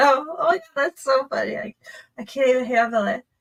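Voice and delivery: loud talking, words broken up by laughter. Reacting to a court clip while laughing while talking. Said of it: "I'm laughing because".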